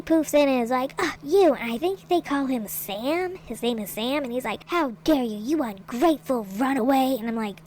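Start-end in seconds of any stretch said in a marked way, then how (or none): 1.0-1.5 louder, higher theatrical outburst; hammed-up dramatic greeting; mock ringleader boom. Ringleader appears and confronts the runaway, loud theatrical call. 4.7-7.2 hammed-up stern ringleader scolding; a lightly voiced showman villain. Ringleader scolds his runaway performer, mock villain voice.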